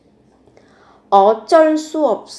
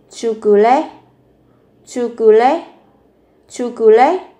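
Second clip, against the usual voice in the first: challenging question; 4 dB louder, faster than usual. Shown as a demonstration. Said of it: "Một câu hỏi thách thức".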